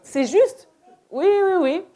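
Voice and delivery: a light imitation of nodding along, eager yeses; pretending to understand, a touch hurried; deaf person bluffing. Deaf person faking understanding to the speaker, lightly voiced. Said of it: "elle fait".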